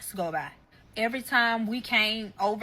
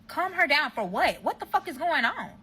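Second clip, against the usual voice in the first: high-pitched retold outrage; indignant demand; 6 semitones higher than usual. Girlfriend demanding answers from her partner, indignant and high. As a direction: push it higher, demanding answers.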